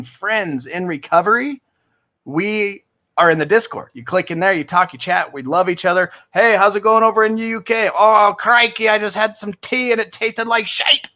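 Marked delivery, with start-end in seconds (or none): 6.3-11.1 higher, hammed-up UK-Aussie accent; badly faked British-Australian accent. Imitating Discord friends chatting from the UK, bad British-Australian accent. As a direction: do a terrible mix of British and Aussie. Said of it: "what accent was that?".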